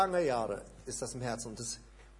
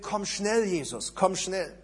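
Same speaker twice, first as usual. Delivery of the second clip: higher and louder cry on schnell; emphatic prayer; 3 semitones higher, 4 dB louder than usual. Shown as a demonstration. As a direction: call out urgently to Jesus. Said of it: "So, das ist das Gebet".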